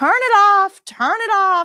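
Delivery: very high, dramatic, drawn-out yell. Retelling how a patient yelled when the room light came on: imitating a patient yelling. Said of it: "the guy starts yelling right away".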